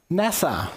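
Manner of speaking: "nasa" said as NASS-uh, stress on the first syllable; Aussie-accent nasa. Shown as a demonstration. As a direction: say "nasa" the Aussie way, like the space agency. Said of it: "don't say nasa in our best Aussie accent".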